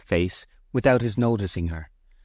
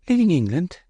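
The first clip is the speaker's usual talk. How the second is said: high, louder startled echo of his words; surprised disappointment; 11 semitones higher, 4 dB louder than usual. A narrator's reading. Bathsheba hears Oak is leaving England, surprised. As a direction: catch his words back in dismay. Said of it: "she said in surprise and genuine disappointment".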